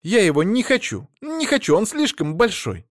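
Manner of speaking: wife cries out against the big dog; desperate cries. A narrator's reading. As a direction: wail it like a frightened child. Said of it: "отчаянные крики жены".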